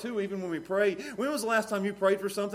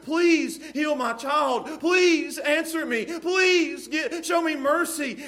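slow, loud, high begging of a desperate mother; desperate pleading; 7 semitones higher, 5 dB louder, much slower than usual. Retold or imitated. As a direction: cry out each please, higher and louder, dragging it. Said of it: "a mother, desperate".

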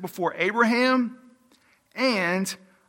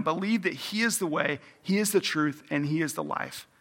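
softer, tender, lingering on each hope; gentle reassurance; 2 semitones lower, 7 dB quieter than usual. Real, not acted. Preacher reassuring hopeless hearers, soft and tender. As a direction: comfort the troubled gently.

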